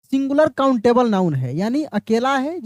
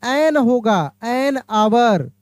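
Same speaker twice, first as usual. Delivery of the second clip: slow model phrase; much slower than usual. Shown as a demonstration. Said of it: "तो यहाँ पे क्या हो जाएगा?".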